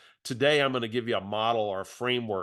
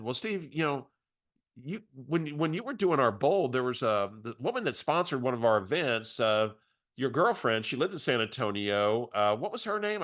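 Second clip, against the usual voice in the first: a hint of her chatty voice; mild impression of the caller asking questions; imitating Barbara; 2 semitones higher than usual. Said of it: "use her voice for impact".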